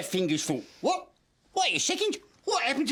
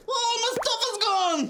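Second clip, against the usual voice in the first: shocked cry; 13 semitones higher than usual. Acted. Puppet finding his stuff gone, shocked cry. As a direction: wail at the vanished stuff.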